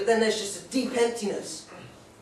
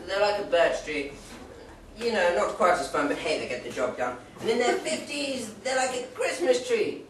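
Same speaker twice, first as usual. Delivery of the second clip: slow mock answer. Mum's slow joke list.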